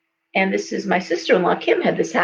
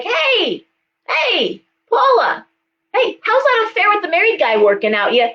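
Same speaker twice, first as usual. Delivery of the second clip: high-pitched, hollered greeting; mock screaming; 10 semitones higher than usual. Psychic hailing Paula in a store about her affair, mock screaming. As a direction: call out indiscreetly in a high, carrying voice. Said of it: "I'm gonna be screaming at".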